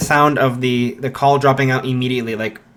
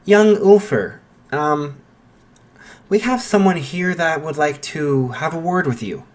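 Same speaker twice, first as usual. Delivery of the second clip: Nezu on the phone; 3 semitones higher than usual. Acted.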